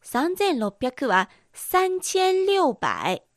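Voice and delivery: slow careful Chinese 三千六百; Chinese number reading. Shown as a demonstration. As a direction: say 三千六百 slowly as sānqiān liùbǎi. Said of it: "三千六百です".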